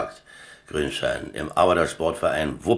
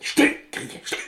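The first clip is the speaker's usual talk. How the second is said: whispered shushing; urgent whispered shush to a cellmate; urgent hush. Acted. Hushing the Greek at night.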